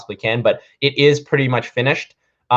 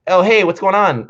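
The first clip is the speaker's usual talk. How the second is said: higher-pitched, easygoing phone hello; casual greeting; 7 semitones higher, 4 dB louder than usual. Retold or imitated. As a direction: answer like you're chatting with a pal. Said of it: "This is, like, how I talk to people".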